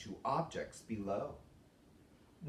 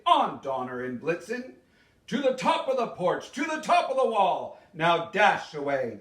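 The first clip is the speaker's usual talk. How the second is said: louder, rousing call to the team; calling out to reindeer; 2 semitones higher, 5 dB louder than usual. Acted. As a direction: sing out the names to spur them on. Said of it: "he whistled and shouted and called them by name".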